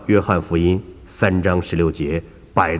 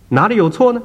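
put-on higher, challenging elderly lady; a raised, questioning old woman; puzzled old woman; 14 semitones higher, 4 dB louder than usual. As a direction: demand to be shown the mistake. Woman asks doctor.

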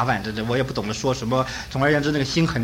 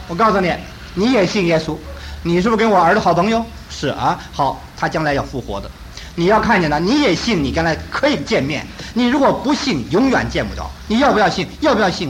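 raised, urgent mother pleading; fervent preaching; 2 semitones higher than usual. Retold or imitated. Grieving mother urging son's friends to believe, fervently. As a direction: press the gospel on them with fervour.

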